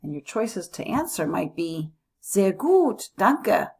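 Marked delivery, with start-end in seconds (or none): 2.2-3.7 "Sehr gut, danke" bright and louder; cheerful. Shown as a demonstration. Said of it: "if you're having a great day".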